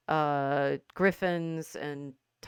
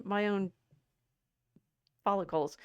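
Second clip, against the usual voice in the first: talking with a hair in the mouth; 7 semitones higher, 5 dB louder than usual. Real, not acted. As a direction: speak around a stray hair in the mouth. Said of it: "I got what's in my mouth".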